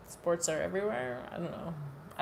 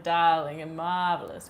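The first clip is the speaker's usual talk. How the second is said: louder, lightly put-on fancy voice; super fancy; 5 dB louder than usual. Shown as a demonstration. Streamer showing chat what she meant, super-fancy voice. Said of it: "I meant super fancy".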